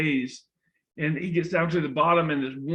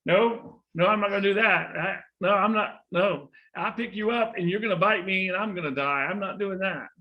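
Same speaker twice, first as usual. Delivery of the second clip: mildly alarmed refusal, higher pitched; firm refusal; 4 semitones higher than usual. Acted. Boy turns down the snake's plea to be carried, mildly insistent refusal. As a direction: push back with quick, raised no's.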